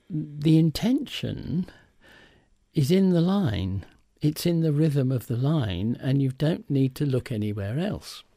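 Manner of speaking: lightly voiced voice coach, deliberate; quoting Cicely Berry. Recalling Cicely Berry's advice to him, lightly voiced. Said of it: "She said to me".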